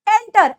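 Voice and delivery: एंटर with an open, drawn-out "ant" vowel; एंटर begun like a long "ant"; wrong long vowel. Shown as a demonstration. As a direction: stretch the first vowel of एंटर into "aan-ter". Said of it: "एंटर नहीं बोलते".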